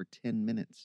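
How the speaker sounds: plain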